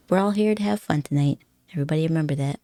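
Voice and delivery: half-joking attempt at sounding sultry for chat. Streamer to viewers, playful mock-sultry tone. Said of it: "in my most sultry voice that I can do".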